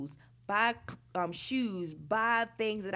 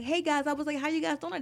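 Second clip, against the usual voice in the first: chirpy greeting; 7 semitones higher, faster than usual. Retold or imitated. Cheerful greeting to McDonald's staff.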